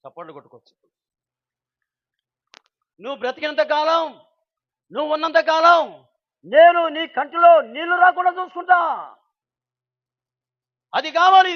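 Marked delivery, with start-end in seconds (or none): 3.0-8.8 loud, higher, rising to a shout; proclaimed promise. Acted. Preacher proclaiming the son's vow to his father, shouted. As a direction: belt out the son's vow to the crowd.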